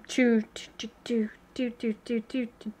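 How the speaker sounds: soft unvoiced choo choo; whispered dance sounds. Showing viewers his dance, whispered. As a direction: whisper the little dance beat. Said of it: "This is my dance".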